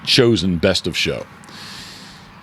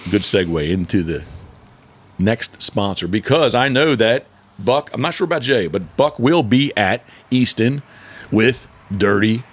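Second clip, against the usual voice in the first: deliberately slower read; slowing down. Real, not acted. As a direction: ease off the pace. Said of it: "I'm gonna slow down".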